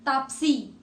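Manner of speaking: "तापसी" said with the long ई ending held; sounding out a name. Shown as a demonstration. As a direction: lean on the long ई at the end of "तापसी". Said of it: "बोल के देखो तेज".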